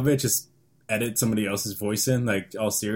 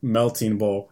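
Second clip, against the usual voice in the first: dull monotone; 3 semitones lower, slower than usual. Shown as a demonstration. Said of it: "dullest voice ever".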